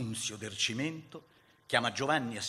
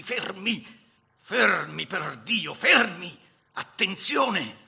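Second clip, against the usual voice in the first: high, building cries to hold; shouted commands; 7 semitones higher, 11 dB louder, much slower than usual. A narrator's reading. Giovannino holding his men back from firing, urgent building shout. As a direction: halt the men, each cry more forceful. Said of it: "strillava Giovannino".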